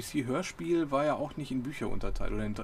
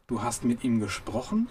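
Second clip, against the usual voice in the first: mild surprise. Acted. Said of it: "rief Ford".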